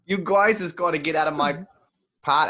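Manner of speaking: put-on starts Boston, slides into Australian accent; mock Bostonian turning Australian; Boston accent sliding into Australian; accent drifting to Australian. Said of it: "I went Australian there at the end".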